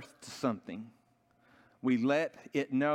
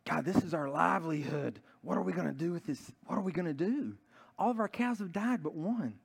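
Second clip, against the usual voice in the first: mildly pleading, pitch climbing; acted worried farmer's prayer; desperate prayer; 4 semitones higher than usual. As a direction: plead with God, rising higher toward the end. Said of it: "they prayed and they prayed to God".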